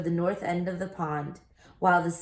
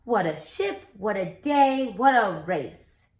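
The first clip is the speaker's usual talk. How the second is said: Stewart exulting; 2 semitones higher, 5 dB louder than usual. Acted.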